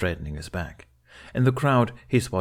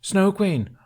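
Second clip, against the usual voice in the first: much higher, loud booming call across the hall; booming shout; 12 semitones higher, 5 dB louder than usual. A narrator's reading. Gobber shouting across the room, booming. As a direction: make the whole hall hear. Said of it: "Gobber's voice carried through the room".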